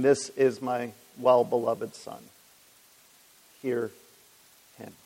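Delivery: slow, solemn and measured, pausing before hear him; voice from heaven. Retold or imitated. The Father speaks from heaven at the baptism, slow solemn proclamation. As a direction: intone it gently like a proclamation from above. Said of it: "came the voice saying".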